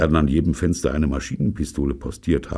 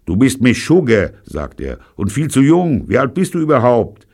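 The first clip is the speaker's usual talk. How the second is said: gangster voice; 9 semitones higher, 9 dB louder than usual. A narrator's reading.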